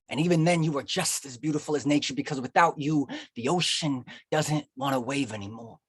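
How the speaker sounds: rhythmic lines swelling, then halting pauses; spoken-word poem. Acted. Poet praising a sweetheart before an audience, spoken-word. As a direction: build it up like a slam poet.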